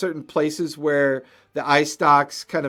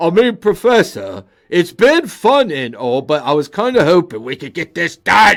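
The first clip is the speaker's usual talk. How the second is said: big booming voice, louder; 2 semitones higher, 8 dB louder than usual. Voicing a figure calling down from upstairs to the Professor: big booming voice. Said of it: "You hear that big booming voice echo from upstairs".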